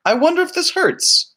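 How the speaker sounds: high, gleeful big-brother voice; playful imitation of a brother; mock brother. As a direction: tease like a mischievous older brother. Imitating older brothers experimenting.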